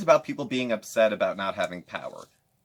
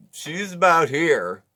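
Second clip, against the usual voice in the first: high mock whisper; 8 semitones higher, 9 dB louder, slower than usual. Imitating mukbanger close to camera.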